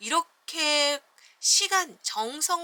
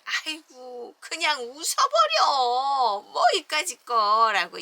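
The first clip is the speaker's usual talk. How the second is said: slow, loud, laughing-it-off hyena; 2 semitones higher, 8 dB louder, slower than usual. Acted. Hyena tells Taylor to laugh it off, loud and slow. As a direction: brush it off loudly.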